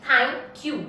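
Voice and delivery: "Thank you" in two separated beats; two syllables. Shown as a demonstration. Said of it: "It has two syllable".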